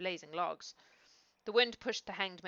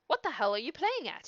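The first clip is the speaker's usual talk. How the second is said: angry father; 5 semitones higher, 5 dB louder than usual. A narrator's reading. Father furious at his son.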